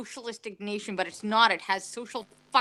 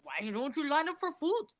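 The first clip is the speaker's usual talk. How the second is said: lightly voiced old politician; a hint of an old man's questioning lilt; Bernie Sanders. Guest defending the impression, lightly voiced old Bernie Sanders. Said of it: "that's a Bernie Sanders in the old voice".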